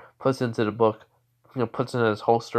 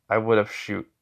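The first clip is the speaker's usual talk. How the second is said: level, unimpressed answer; blank deadpan. Acted. He answers her laughing doubt, blank deadpan. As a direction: state it blankly, no lift. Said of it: "just looks at her blankly".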